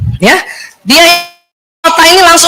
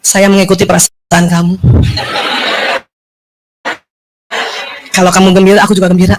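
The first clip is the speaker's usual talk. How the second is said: low, subdued husband voice; husband's reply; 7 semitones lower, 4 dB quieter, faster than usual. Retold or imitated. Husband answering his annoyed wife, low and subdued. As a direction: drop your voice, deadpan as the husband. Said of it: "Apa dia bilang?".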